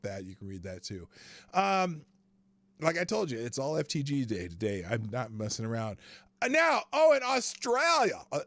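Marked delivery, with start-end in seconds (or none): 6.4-8.2 excited exclamation. Real, not acted. Excited lead-in to story.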